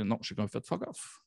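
normal talking voice

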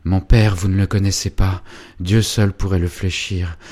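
loud, vehement outburst; vehement lover. Acted. Félicien telling Angélique his father is unbending, vehement. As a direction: cry out against the father.

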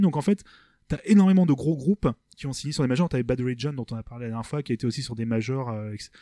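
ordinary talk

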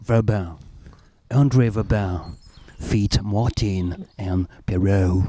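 put-on slow French-accented English billing; mock English announcer. Mock English billing of their show. (annonce en anglais à l'accent français)

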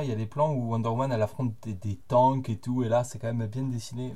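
slipping into a southern French accent. Real, not acted. Co-host defending the drawings, slipping into southern French accent. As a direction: let a Midi accent creep in. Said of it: "Ne prends pas l'accent du Sud".

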